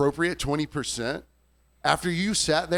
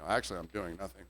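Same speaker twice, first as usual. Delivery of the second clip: dry retort; 7 semitones lower, 9 dB quieter, faster than usual. Retold or imitated. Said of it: "I'm like".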